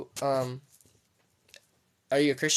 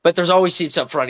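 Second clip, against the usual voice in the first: usher impression; 3 semitones higher, 4 dB louder than usual. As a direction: do your best irritated-usher impression. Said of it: "do my best impression".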